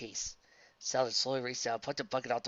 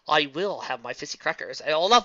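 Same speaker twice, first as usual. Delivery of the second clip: triumphant; 3 semitones higher, 9 dB louder than usual. Acted.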